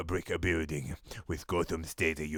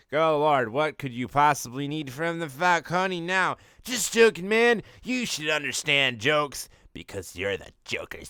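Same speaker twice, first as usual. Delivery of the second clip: Mario voice; 6 semitones higher than usual. Acted. Carl voiced on phone.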